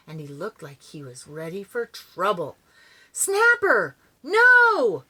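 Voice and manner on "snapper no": loud, high barked cry. Acted. Dog Spunky stopping Snapper from raiding eggs, a loud high bark. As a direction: stop him with a sharp loud cry. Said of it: "barked Spunky".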